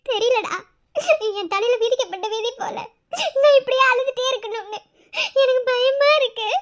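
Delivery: crying between phrases; tearful. Acted. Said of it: "இப்ப ஏன் அழுகுற?". (அழுதுகொண்டே பேசும் குரலில்)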